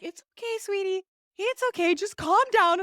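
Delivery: high cooing nurse imitation; soothing nurse. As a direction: mimic a nurse comforting while petting a head. Imitates nurse petting patient's head.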